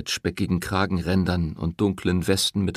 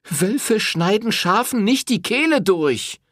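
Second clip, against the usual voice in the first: high, loud furious reproach; angry accusation; 13 semitones higher, 4 dB louder than usual. A narrator's reading. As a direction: shame him to his face. Woman confronting the priest.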